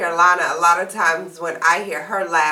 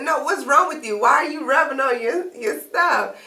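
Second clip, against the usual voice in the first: high, puzzled mother voice; sister's voice; 6 semitones higher than usual. Retold or imitated. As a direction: press him like a worried mom. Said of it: "And she said".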